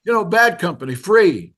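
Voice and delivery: high, loud British imitation of a singer. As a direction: imitate a Brit prompting recognition. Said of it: "with a British accent".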